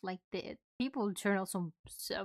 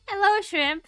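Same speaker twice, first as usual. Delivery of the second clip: cute anime streamer; 10 semitones higher, 10 dB louder, slower than usual. Real, not acted. Greeting raider.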